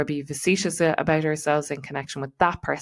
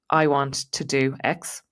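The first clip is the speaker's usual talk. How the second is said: "I want to do X" spoken slowly and steadily as a statement; steady, unhurried delivery; calm statement; slower than usual. Shown as a demonstration. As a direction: say it plainly and let it sit. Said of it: "using the breath in the pause".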